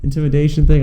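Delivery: high, loud and slow astonished question; mock disbelief, stumbling over the word; stunned catcher. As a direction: play the catcher who can't believe the strikeout. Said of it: "his catcher goes".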